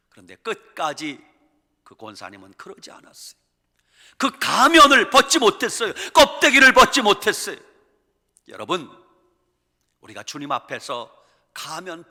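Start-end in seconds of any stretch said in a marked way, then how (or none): 4.2-7.6 higher, louder preaching cry; loud rebuke. Real, not acted. Preacher loudly laments the deaconess's mask. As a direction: cry it out from the pulpit.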